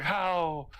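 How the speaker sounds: high, startled mock question; mock disbelief. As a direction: squeak it out in disbelief. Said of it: "It's like".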